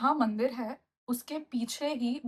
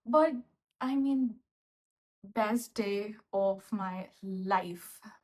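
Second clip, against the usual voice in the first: heartfelt; 3 semitones lower, much slower than usual. Real, not acted. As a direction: savor each word, moved. Slow emotional summing up.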